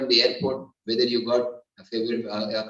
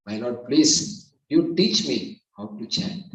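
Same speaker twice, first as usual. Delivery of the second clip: humble prayer; slower than usual. Shown as a demonstration. Models prayer before chanting.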